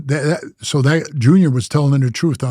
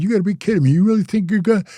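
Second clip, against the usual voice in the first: higher, scoffing disbelief; mock disbelief; 5 semitones higher, faster than usual. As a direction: scoff at the threat to his face. Facing Barry's fists.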